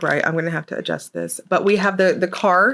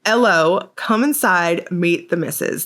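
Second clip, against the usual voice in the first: put-on UK accent. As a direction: redo the British greeting with a lifted start. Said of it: "Did I do my U K accent right?".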